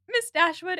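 imitating a nervous man catching on the name; a slight mock choke on the words; choking on it. Edward greeting the Dashwood women, choking on it. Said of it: "he kinda chokes on it".

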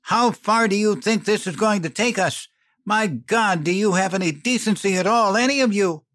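high, loud, cutting accusation; spitting anger. A narrator's reading. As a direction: hurl the questions at him in fury. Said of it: "She spat".

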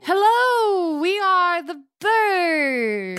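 high, slow sing-song bird greeting. Acted. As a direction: chirp it out like a cartoon bird. Performing as birds on stage.

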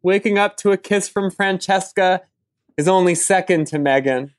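earnest, overblown eulogy reading; reading a poem. Acted. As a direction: read it like a solemn tribute. Reads eulogy poem for dog.

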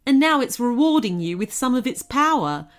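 a hint of a friendly goblin explaining; lightly voiced goblin. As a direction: lightly play a warm-hearted goblin. Narrator voices kindly goblin.

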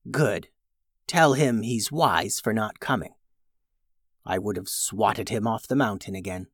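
quiet, smug dragon; softly menacing dragon. Acted. Dragon voiced by reader.

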